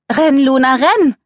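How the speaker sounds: loud, high cry of alarm; urgent shout. Acted. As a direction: shout at your friend to flee. Warns friend of approaching thugs.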